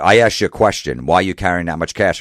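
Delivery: retold confrontational demand; demanding officer. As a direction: press for an answer like an annoyed official. Acted airport officer demanding an answer.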